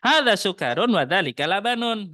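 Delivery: put-on overdone Arabic accent. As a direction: ham up the Arabic accent too much. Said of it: "bukan begitu juga".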